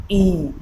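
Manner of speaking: ई said half close with the tongue forward; vowel demo. Shown as a demonstration. Teacher showing the half-close front vowel, clearly. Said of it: "यहाँ हमारा mouth है वो half close है".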